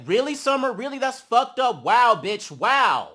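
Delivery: loud, disgusted disbelief; loud retold outrage; mock indignation. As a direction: act out her offended outburst. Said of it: "So Scotty's like".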